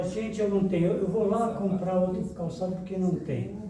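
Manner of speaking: a hint of panic over having no shoes; mock desperate lady. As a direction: play a flustered lady, half in jest. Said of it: "Sai meio desesperada".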